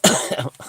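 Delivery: short dry cough; wheezy cough. Real, not acted. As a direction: cough to clear the throat. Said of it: "I'm wheezing a bit".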